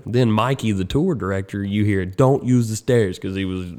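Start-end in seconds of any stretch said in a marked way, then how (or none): 2.0-3.2 slow, hammed-up British announcement; terrible British accent. Tour director warning passengers during an emergency, terrible British accent. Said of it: "Terrible British accent".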